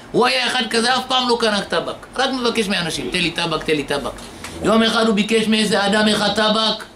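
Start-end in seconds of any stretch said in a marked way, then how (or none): 3.1-4.1 mooching plea. Retold or imitated. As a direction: mumble it like a habitual moocher. Moocher begging for tobacco.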